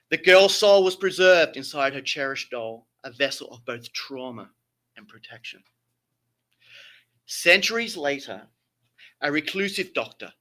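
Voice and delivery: grand theatrical storytelling; Shakespearean voice. Acted. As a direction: read it like an old stage tragedy. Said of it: "I have to put my best Shakespearean voice".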